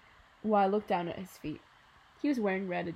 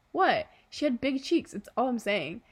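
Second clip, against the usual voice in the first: playful protest; 3 semitones higher, 6 dB louder than usual. Acted. Dad playful mock defence.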